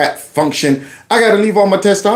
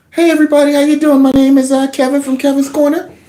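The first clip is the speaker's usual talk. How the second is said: voice pushed up several octaves, much higher-pitched; 9 semitones higher than usual. Speaker joking his testosterone was taken at the door, much higher-pitched voice. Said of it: "speaking about three or four octaves higher".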